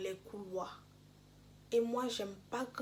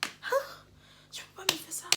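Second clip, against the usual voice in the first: indignant protest; 6 semitones higher than usual. Retold or imitated. Retold confrontation with teacher.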